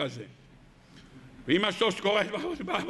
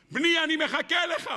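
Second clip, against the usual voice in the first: calling out; 4 semitones higher than usual. Acted. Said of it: "הוא צעק לו ככה".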